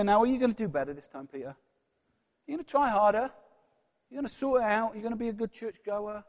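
high, loud, hectoring questions; preacher mocking the judgmental church voice, high and pushy; nagging scold. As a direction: badger the sinner with demands to do better. Mock-voices a demanding church scold.

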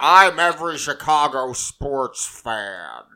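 an unsure Chicago accent, played big; failed Chicago accent. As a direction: proudly announce yourself in a bad Chicago accent. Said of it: "I don't even know what accent that was".

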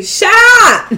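laughing, high and loud; cracking up at a joke. Real, not acted. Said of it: "Deep throat".

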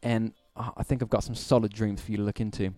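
put-on reading an email in a British accent; light British accent read. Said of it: "I'm gonna read this in a British accent".

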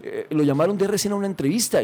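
mother bursting with the news of the call; excited mother. Retold or imitated. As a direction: blurt it out like an overjoyed mother. Mother excitedly announces RCN call.

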